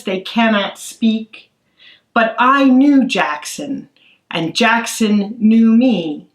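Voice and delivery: slow, measured poetry reading; poem reading. Acted. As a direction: read it gently, letting each line breathe. Author reads her poem aloud.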